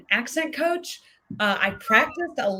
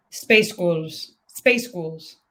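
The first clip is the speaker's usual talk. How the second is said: Scottish accent practice; 3 semitones lower, 4 dB louder, much slower than usual. Shown as a demonstration. Author practising the trick, tentative mock Scottish accent. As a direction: space ghouls tried twice, low, as mock Scottish. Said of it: "a hack to say a band's name".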